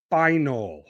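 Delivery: "final" set apart by pauses; stress on final. Real, not acted. Host underlining which match matters, "final" said with emphasis. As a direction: give "final" its own deliberate beat.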